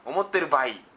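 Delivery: amateur go at Hakata-ben; mock Hakata dialect. Shown as a demonstration. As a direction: demonstrate a Hakata ending on バイ. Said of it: "博多弁で喋ってほしいのかね". (ぎこちない博多弁)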